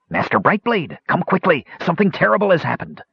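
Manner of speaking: high, urgent cry for help; distraught, weeping cry. Acted. Gnome atop the wall summoning the knight, distraught and urgent. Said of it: "He was weeping".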